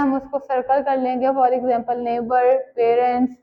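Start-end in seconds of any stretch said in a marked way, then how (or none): 2.1-3.4 neighbor and parents drawn out slowly, each syllable given weight; multi syllable words said slowly. Shown as a demonstration. Teacher to students, showing syllable stress slowly. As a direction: spell out the syllables slowly for the class. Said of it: "जिसमें हम एक से ज़्यादा दफ़ा stress दे रहे हैं".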